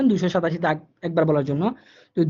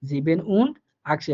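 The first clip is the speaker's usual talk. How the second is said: 1 slow German demo; 3 semitones lower, slower than usual. Shown as a demonstration. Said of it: "ওই সংখ্যাটা আপনি বলবেন।".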